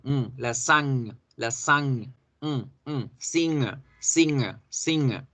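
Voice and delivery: "lasaña" and "singer" sharing a back ng; sound demonstration. Shown as a demonstration. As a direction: hum the nasal, then "lasaña", then "singer". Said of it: "Ese es el sonido".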